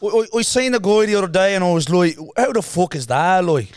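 hammed-up Irish accent. Setting a line for the parrot, mock Irish accent. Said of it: "the Irish and the Scottish".

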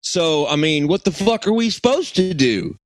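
mock Russian coming out Southern; lightly put-on Southern accent. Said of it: "I was doing a Southern accent".

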